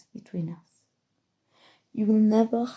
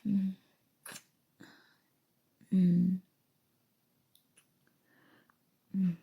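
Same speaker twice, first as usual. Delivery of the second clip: intimate hum. Acted. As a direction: hum briefly, as if savouring a kiss. Acting out an intimate moment.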